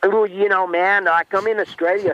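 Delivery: lightly put-on American accent, laid-back. Winemaker imitating a singer's American accent to the radio host, mild American accent. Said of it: "in his American sort of accent".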